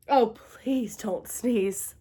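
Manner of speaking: slow pleading. A narrator's reading.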